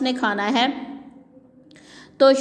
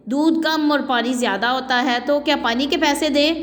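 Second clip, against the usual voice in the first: raised voice; 3 semitones higher than usual. Acted. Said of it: "اونچی آواز میں کہتی ہے".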